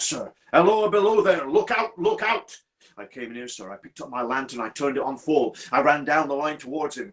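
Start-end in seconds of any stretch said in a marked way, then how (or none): 0.5-2.6 high, urgent warning call, loud at first. Acted. Signalman re-enacts the figure's warning, calling out high. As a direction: call down the line in alarm. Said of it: "He was calling out".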